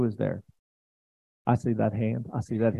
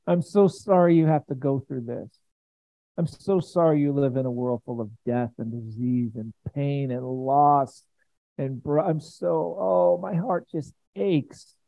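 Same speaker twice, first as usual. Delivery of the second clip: slow, aching voice of a loving Jesus; tender Jesus voice; 2 semitones higher than usual. Acted. Preacher voicing Jesus to his people, slow and tender. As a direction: pour out love slowly, heart aching.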